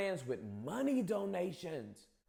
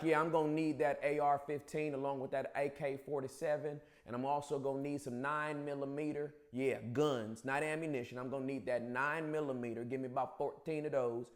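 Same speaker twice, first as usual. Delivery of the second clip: put-on a light Southern Bubba accent, a bit lower; 4 semitones lower, 3 dB quieter than usual. Gun-shop customer ordering ammo in a light Bubba accent. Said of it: "I just gave you the Bubba accent".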